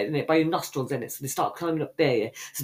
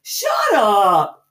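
louder playful yell; mock angry shout; 6 semitones higher, 5 dB louder, slower than usual. Real, not acted. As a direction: yell her down, half joking.

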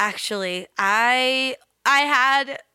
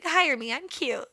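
a touch of a pushy director; lightly voiced bossy director; sketch director impression; 5 semitones higher, 4 dB quieter than usual. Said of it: "she'll be like".

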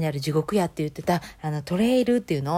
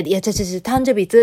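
loud correction; 2 semitones higher, 7 dB louder than usual. Retold or imitated. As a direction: shout it again so she catches it. Repeating question loudly to granny.

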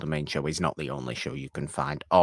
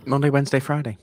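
higher, louder, emphatic listing; excited repeat; 8 semitones higher, 6 dB louder, faster than usual. Shown as a demonstration. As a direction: announce the days with gusto.

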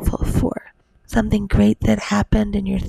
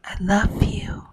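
tender whisper; 4 dB quieter than usual. Real, not acted. Goodnight to child.

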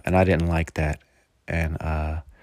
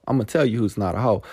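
rattled off fast and lighter; fast throwaway echo of the line; quick repeat; faster than usual. Shown as a demonstration.

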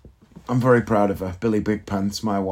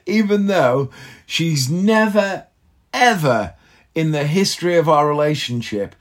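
ordinary talk, nothing marked

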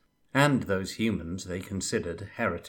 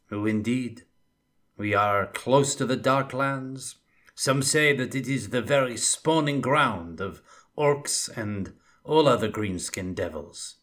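wry scout spinning ominous tales; Bretonnian scout; 4 dB louder than usual. Acted. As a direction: scout warns Felix of the Darklands, wry and ominous. Jules voiced in the story.

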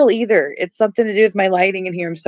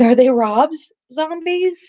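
incredulous; 8 semitones higher, slower than usual. Real, not acted. Incredulous echo of friend.

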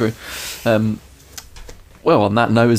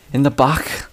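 put-on Northern accent; 4 semitones higher than usual. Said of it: "Bailey's then for comparison".

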